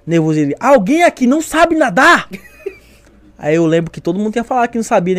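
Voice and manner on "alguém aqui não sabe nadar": slow, higher-pitched called-out question; mock-bellow it to the whole group; drawn-out instructor's call; imitated instructor's shout. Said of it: "falando, gritando".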